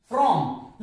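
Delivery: from with the R sounded; R pronounced. Shown as a demonstration. Teacher repeats the example for students, R pronounced in from. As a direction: sound the R in "from" before the vowel. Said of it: "आर का उच्चारण होगा".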